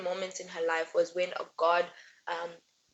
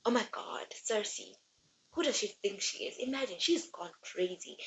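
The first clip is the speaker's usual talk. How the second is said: softer gossiping, whispered at first; gossipy hush; 5 dB quieter than usual. Retold or imitated. Gods gossiping about Cersei, hushed and catty. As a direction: gossip behind her back. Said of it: "everyone's talking about".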